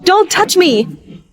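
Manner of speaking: drawn-out, high-pitched protest; slow, high cry of refusal; indignant outcry. Acted. Stranger keeps harassing her.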